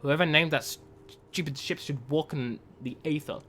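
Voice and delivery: lightly voiced, quiet grieving read; sorrowful letter. Sibling writes to a sister lost in hibernation, softly sad.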